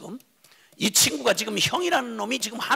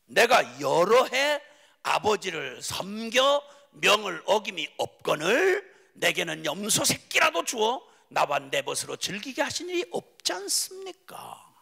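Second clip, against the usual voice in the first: 불평하는 형. Acted. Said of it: "이 형놈이 대답을 합니다".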